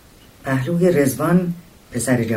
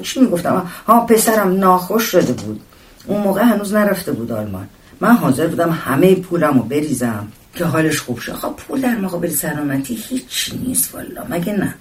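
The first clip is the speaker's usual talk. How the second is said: lightly voiced chatterbox, higher and animated; rambling woman passenger; 4 semitones higher than usual. Mother recalling her son's illness to a stranger, lightly voiced and chatty. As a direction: lightly play her picking up the thread.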